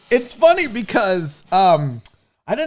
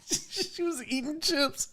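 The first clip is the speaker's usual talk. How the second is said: hushed punchline; 8 semitones higher, 13 dB quieter, slower than usual. Real, not acted. Telling the chat his wife was eating chips, hushed. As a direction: drop it softly like a secret.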